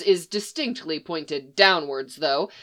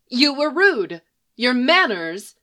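higher, prim and haughty; lightly voiced haughty sorceress; haughty enchantress; 4 semitones higher, 4 dB louder than usual. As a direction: say it with your nose in the air. Enchantress scolds.

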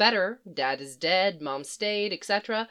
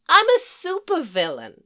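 Harley interrupting; 9 semitones higher, 6 dB louder than usual. Acted. Harley announces herself.

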